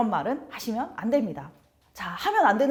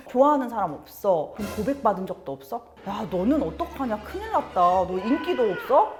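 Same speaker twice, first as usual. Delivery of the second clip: mock teasing; 3 dB louder than usual. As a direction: tease like a nosy parent, half-joking. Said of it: "이런 식으로 놀리시는". (아이를 놀리는 부모, 장난스럽게)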